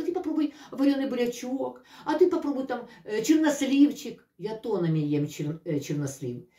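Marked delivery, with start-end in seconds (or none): 0.0-4.3 imitating advice. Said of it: "Мне кто-то скажет".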